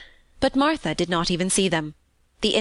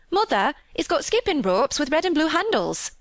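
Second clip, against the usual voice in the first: put-on higher, excited child's call in dialect; 9 semitones higher than usual. Maid imitating her sister calling mother, excited. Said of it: "our Lisbeth Ellen called out".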